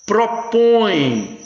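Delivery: "Propõe" with the "õe" pushed through the nose; nasalized o demo. Shown as a demonstration. Teacher showing class nasal "õe" in "Propõe", careful demo. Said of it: "Olha o tio nasalizando o O".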